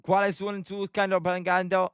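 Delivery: put-on made-up Spanish in a light Mexican accent; half-hearted attempt at a Mexican accent; mock Mexican accent. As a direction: improvise a rough Mexican accent. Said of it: "Mexican accent".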